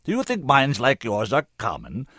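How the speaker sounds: loud, commanding oratory; full-power voice. A narrator's reading. Senator urges the woman not to give up, full-powered. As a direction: press each point home with full force. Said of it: "using the full power of his voice now".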